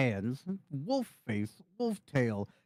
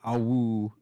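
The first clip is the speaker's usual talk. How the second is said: wolf howl; 4 dB louder than usual. Acted. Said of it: "the patented".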